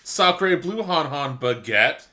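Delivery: hammed-up French accent, high and loud; mock French chef, slow and loud. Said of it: "Say it in French at least".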